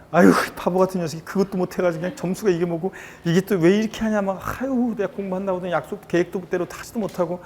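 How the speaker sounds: mock exasperated self-scolding with sighed "아유"; 자책하는 말투. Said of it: "막 본인을 자책합니다". (스스로를 나무라듯 답답해하는 말투)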